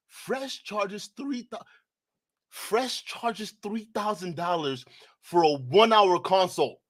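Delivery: slow, deliberate, spelling out each word; stunned slow reread; slow disbelieving reread. Real, not acted. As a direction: reread it slowly as if it can't be true.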